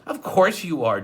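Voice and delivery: high, chirpy judge voice; a kindly judge's high-pitched concern; Justice Strauss. Acted. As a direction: fuss over the kids in a bright high voice. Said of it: "Justice Strauss said".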